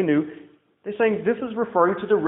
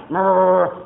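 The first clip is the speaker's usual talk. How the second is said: muttering noise. Shown as a demonstration. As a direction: murmur a wordless mutter. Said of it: "say something under your breath".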